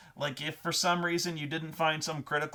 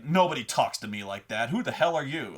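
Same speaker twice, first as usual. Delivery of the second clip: mildly acted tough challenge; intimidating. Player demonstrating how to intimidate a guy, intimidating. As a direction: challenge them, putting on some menace. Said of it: "Do something intimidating".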